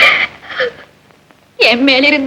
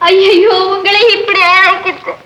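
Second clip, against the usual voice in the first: crying. Acted. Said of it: "அழாத ராணி".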